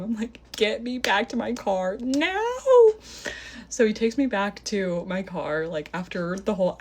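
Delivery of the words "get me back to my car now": slow, high retold demand; hammed-up scream without full volume, stretching the last word; mock screaming. Woman screaming at date after the crash, drawn-out demand. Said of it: "I just start screaming at him".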